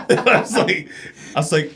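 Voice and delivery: laughing while talking. Real, not acted.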